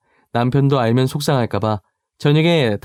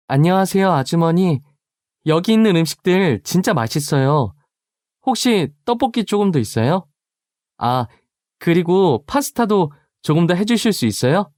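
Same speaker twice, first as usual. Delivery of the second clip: put-on higher, bright polite kid voices; a group of teens sweetly asking for seconds; polite schoolkids; 5 semitones higher than usual. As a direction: chirp politely like teenage guests asking for more food. Daughter's friends greet the housekeeper.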